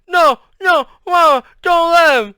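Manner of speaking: high, loud garbled panic; muffled terrified wail; mumbling, mouth stuck. A narrator's reading. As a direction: protest frantically through frozen lips. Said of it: "and mumbling".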